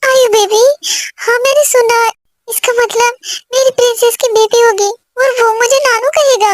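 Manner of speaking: high, tearful joy at the news; a grandfather-to-be crying happily; happy tears. Acted. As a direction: choke up with delight. Parents overjoyed at pregnancy news.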